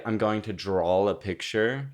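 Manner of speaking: Texan vowel drawn out on "draw"; Texan drawl. Shown as a demonstration. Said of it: "That's that Texan drawl".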